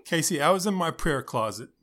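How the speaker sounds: lightly voiced heartfelt youth pastor; building, preachy youth leader; upbeat youth pastor. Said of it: "the random youth pastor voice".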